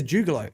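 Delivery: juggalo with an "oo" in the first syllable; juggalo, first vowel like "too"; "joo-galo" pronunciation. Shown as a demonstration. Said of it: "He says juggalo".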